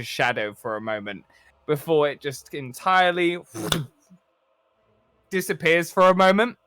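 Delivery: measured cinematic narration; game master's scene setting. A narrator's reading. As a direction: paint the scene for the players.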